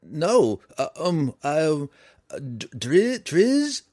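high, loud panicked stutter; frightened stammer. A narrator's reading. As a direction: stammer in fear.

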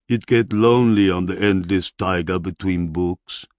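broken-English barbarian voice; a simple warrior confessing loneliness; lonely barbarian. A narrator's reading. Barbarian hero voiced by narrator.

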